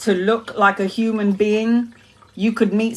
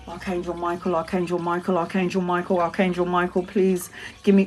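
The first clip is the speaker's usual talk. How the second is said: mumbled desperate prayer; 3 semitones lower, 5 dB quieter than usual. Retold or imitated. Desperate prayer while near death.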